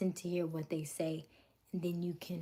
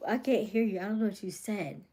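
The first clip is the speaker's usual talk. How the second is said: raised voice, imitating a friend; mildly louder, higher mock complaint; retold complaint; 3 semitones higher, 6 dB louder than usual. Friend calling out her mumbling, retold complaint.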